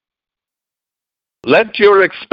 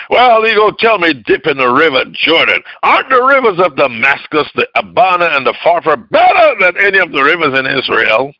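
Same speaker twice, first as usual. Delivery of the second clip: indignant Naaman; 6 semitones higher than usual. Retold or imitated. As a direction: huff it out like a proud man insulted. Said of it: "went away in a rage".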